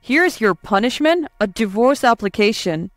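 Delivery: angry. Acted. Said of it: "My husband stormed in noisily".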